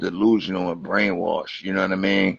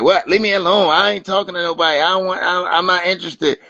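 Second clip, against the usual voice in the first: mock snippy woman; 7 semitones higher than usual. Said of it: "she like".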